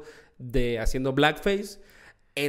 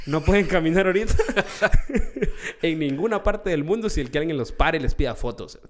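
hablando entre risas, con una carcajada aguda en medio; riéndose; 3 semitones higher, 4 dB louder than usual. Real, not acted. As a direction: se le escapa la risa mientras lo dice. Riéndose mientras cuenta lo de famosos. (contándolo muerto de risa)

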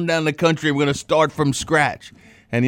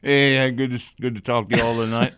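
cigar in mouth. Real, not acted. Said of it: "Frank's got that cigar in his mouth".

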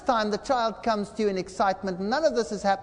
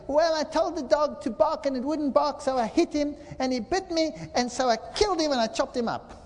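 put-on innocent child; 6 semitones higher than usual. Child explains killing the dog.

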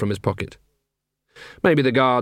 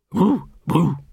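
bored; 4 semitones higher than usual. A narrator's reading. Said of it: "in a bored way".

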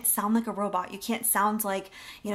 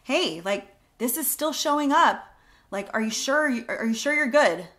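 concerned check-in; 3 semitones higher, 3 dB louder than usual. Shown as a demonstration. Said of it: "the third one is".

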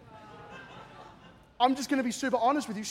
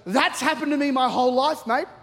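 higher, animated retelling of an amazed mate; excited exclamation; 4 semitones higher, 3 dB louder than usual. Retold or imitated. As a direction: blurt it out in amazement. Astonished man stands up, slams table.

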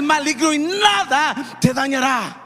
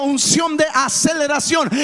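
shouted phrase, call and response; shouted with the crowd. Real, not acted. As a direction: shout it out for the congregation to echo. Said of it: "Alguien grite conmigo".

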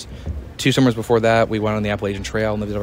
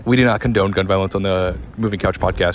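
lower, steady announcer read; 4 semitones lower than usual. Shown as a demonstration. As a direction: deliver it like a show announcer. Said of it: "my, like, announce words".

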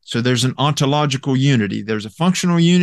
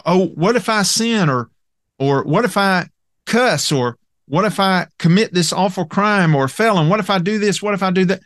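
higher-pitched, lightly voiced doubter; a hint of an anxious questioner, pitched up; mock worried objector; 5 semitones higher than usual. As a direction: imitate someone fretting over what-ifs. Voices worried believers' hypothetical objections.

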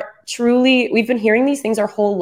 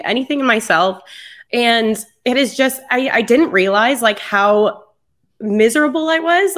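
teary; 4 semitones higher than usual. Real, not acted. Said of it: "Sorry for, like, being teary".

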